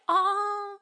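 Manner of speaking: high, drawn-out mock delight; hammed-up maternal surprise; imitating mom. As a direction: play a thrilled mom, stretching it slowly. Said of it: "then she's like".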